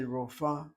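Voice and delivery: "rofa" as two syllables, ro-fa; mispronounced rofa. Shown as a demonstration. Teacher quoting what people wrongly say, mispronounced. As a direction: say "rofa" with the e dropped. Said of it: "that's wrong".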